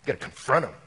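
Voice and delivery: lightly voiced eager confronter; a hint of a gung-ho dude voice; mock zealous bro. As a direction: parody the pushy guy egging you on. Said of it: "people that's right now going".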